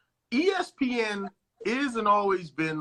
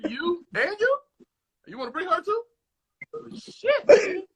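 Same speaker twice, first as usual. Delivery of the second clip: high, loud, laughing through the words; laughing mock bragging; 12 semitones higher, 9 dB louder than usual. A star bragging to the host, high and laughing. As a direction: ham up a star inviting women home.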